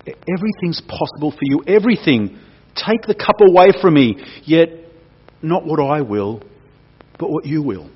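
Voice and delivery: pleading prayer. Acted. Jesus praying in anguish.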